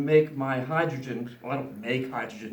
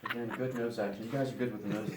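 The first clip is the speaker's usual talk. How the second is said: laughing; 4 semitones lower, 8 dB quieter, faster than usual. Real, not acted. Amused at smoking noses.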